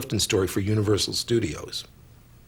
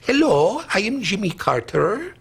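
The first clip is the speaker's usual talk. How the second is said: Jimmy Carter impression; 9 semitones higher than usual. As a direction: announce yourself like the president. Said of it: "I'd like to do the Jimmy Carter".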